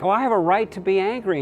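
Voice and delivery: high, fast, petulant whine; whiny Jonah. Retold or imitated. Sulky prophet voice, hammed up lightly. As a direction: Jonah whining his complaint to God, mock petulant. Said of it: "and he's like".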